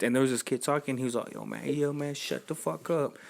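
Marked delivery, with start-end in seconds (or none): 1.3-3.2 retold annoyed snap. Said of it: "he was just pissed".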